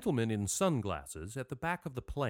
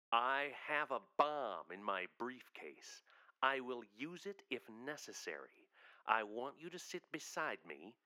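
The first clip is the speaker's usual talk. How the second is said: hushed menacing read; 2 semitones lower, 8 dB quieter than usual. Acted. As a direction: read the note in a hushed, threatening voice. Reading the hijacker's threatening note.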